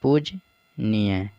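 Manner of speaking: पूजनीय drawn out very slowly, each syllable spelled out; slow careful pronunciation. Shown as a demonstration. Teacher showing students how to say पूजनीय, very slowly. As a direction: stretch पूजनीय syllable by syllable to show the right form. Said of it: "पूजनीय इस तरह से होता है".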